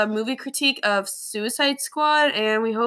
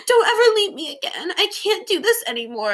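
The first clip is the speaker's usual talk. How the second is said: mock dramatic plea; 7 semitones higher than usual. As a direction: overact the witch's plea. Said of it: "she's like".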